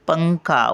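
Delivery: "पंखा." lifted on "पं", falling after; शब्द वर उचलून. Shown as a demonstration. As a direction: raise the nasal syllable of "पंखा.". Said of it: "वरती उचलतो ना शब्द". ("पंखा." पं वर उचलून)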